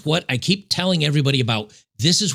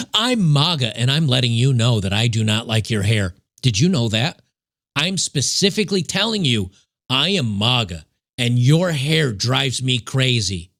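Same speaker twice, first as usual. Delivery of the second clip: half-hearted dumb-guy impression; mock maga man; 2 semitones lower than usual. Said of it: "we talk like this".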